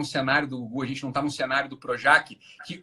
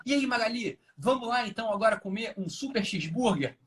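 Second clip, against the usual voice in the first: higher-pitched, stagy delivery of a line; stagy acting; 6 semitones higher than usual. Shown as a demonstration. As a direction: act it out like a bad TV actor. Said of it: "Isso é encenação".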